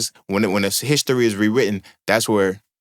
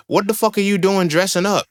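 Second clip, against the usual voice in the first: incredulous; 8 semitones higher than usual. Real, not acted. Incredulous rant about dressing up.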